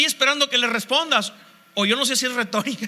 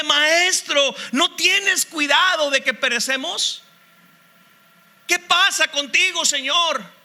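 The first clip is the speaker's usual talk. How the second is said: higher, pleading reproach at the sleeping master; reproachful complaint; 4 semitones higher than usual. Acted. Frightened disciples reproaching sleeping Jesus in the storm, higher reproachful tone. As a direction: demand answers from the one who is asleep. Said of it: "pero con un tono de reclamo".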